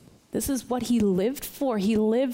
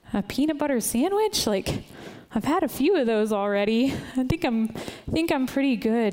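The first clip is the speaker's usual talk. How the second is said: polite reluctance; 3 semitones higher than usual. Retold or imitated. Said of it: "watching God and saying".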